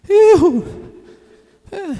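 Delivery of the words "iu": short, high, loud whoop; shrieked mock "woo"; party whoop. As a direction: mimic a reveler's yelp at a dance. Mimics whooping at the forró.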